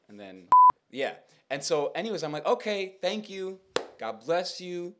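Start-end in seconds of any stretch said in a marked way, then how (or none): 2.5-4.9 retold polite brush-off. Polite escape from insulter, retold.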